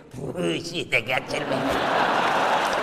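smug husband. Acted. Flattered husband gloating over his wife's praise, slow and smug. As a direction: savour the compliment, puffed up. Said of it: "그렇게 말하면 남자들은".

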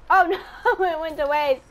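loud, high wail of disappointment; dismayed wail. Real, not acted. Gamer whose Sparrow went to waste, dismayed wail. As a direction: lament loudly over the waste.

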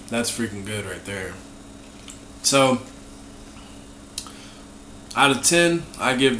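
licking while talking; speaking between bites; mouth full of cream. Real, not acted. Seen 1: holds opened cookie at mouth, licking cream between words.

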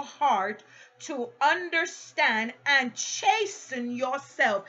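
slow, weighted word by word; measured pulpit reading; solemn scripture reading. A narrator's reading. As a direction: declaim the verse slowly with stressed key words. Reads scripture to congregation.

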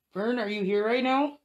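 high, loud, slow call; calling out to a ghost. Real, not acted. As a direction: call slowly into the dark.

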